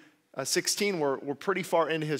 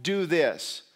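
louder sarcastic dare; angry sarcastic challenge; 6 dB louder, much slower than usual. Retold or imitated. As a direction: taunt God to prove himself. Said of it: "angrily and sarcastically say".

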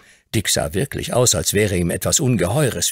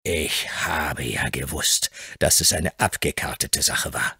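lower, softer, slow grumble; grim shopkeeper; 4 semitones lower, 4 dB quieter than usual. Acted. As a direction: brood over the swindle. Hobbs sinks on his chair.

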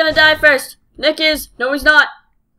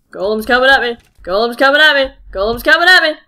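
panicked repeat; faster than usual. Real, not acted. Golem chasing him in game.

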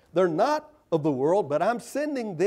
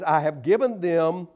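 scripture reading; 6 dB louder, slower than usual. Acted. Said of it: "he says".

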